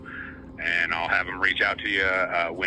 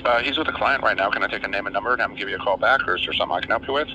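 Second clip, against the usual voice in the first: phone speaker; faster than usual. Real, not acted. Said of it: "I have you on speaker".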